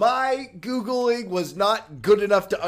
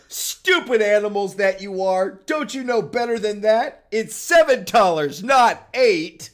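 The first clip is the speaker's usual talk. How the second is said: cried out; 2 semitones higher, 4 dB louder than usual. Acted. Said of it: "he cried to them".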